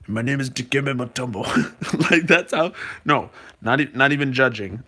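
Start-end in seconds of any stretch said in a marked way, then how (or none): 0.1-1.4 lightly imitated basketball legend; a hint of the player's unique voice; Dikembe Mutombo. Streamer shows viewers how the player sounds, light impression. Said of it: "the way that I talk like this".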